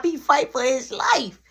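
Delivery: whispered dramatic aside. Real, not acted. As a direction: hush it like a secret.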